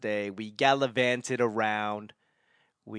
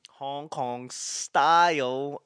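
slow, drawn-out bad Hong Kong accent; much slower than usual. Naming the dim sum, in a bad Hong Kong accent. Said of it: "that was a bad accent".

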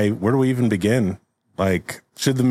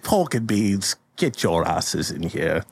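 acted Shakespeare father; 2 semitones lower, slower than usual. Shakespeare ordering his twin sons inside, mock-stern father. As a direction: play a father calling his children in. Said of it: "William's like".

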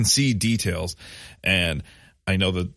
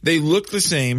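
amazed disbelief; 9 semitones higher, 4 dB louder than usual. Real, not acted. Amazed at the lookalike pitchers.

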